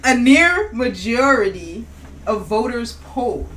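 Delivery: a hammed-up reveal of the poll; dramatic reveal read. Shown as a demonstration. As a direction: draw out the numbers like a big announcement. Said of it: "Let's hear it".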